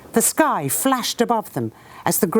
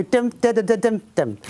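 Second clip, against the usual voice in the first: gun rhythm; 3 semitones higher than usual. Retold or imitated. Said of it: "somebody would just go".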